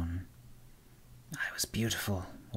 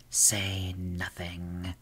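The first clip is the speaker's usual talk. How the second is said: hissed; much slower than usual. Acted. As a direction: hiss it out slowly as the wisp. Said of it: "the Will-o'-the-Wisp hissed".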